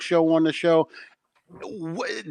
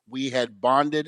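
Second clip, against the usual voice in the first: ordinary delivery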